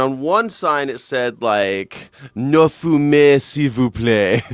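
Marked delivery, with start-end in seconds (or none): 2.3-4.4 drawn-out, slow French politeness; polite French request. Retold or imitated. Host imitating a French no-smoking sign, slow and polite. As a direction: read it as a lingering, courteous plea.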